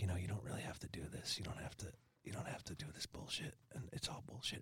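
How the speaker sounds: secretive, conspiratorial whisper, very soft, barely voiced. Telling a story, acting out a man whispering to a woman; retelling a conspiratorial whisper. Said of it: "he's whispering to her".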